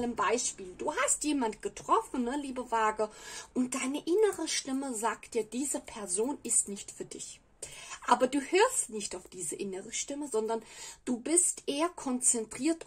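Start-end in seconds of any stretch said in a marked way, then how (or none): 5.4-7.4 hushed, unvoiced warning; whispered inner voice. Inner voice warns the Libra about a person, whispered. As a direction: breathe it like a secret inner warning.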